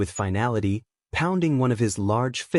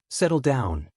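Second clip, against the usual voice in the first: lazy demand. A narrator's reading. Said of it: "the teacher lazily demanded".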